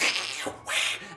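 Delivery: hissing scratch noise; cat hiss. Acted. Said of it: "the cat saw the thief and went".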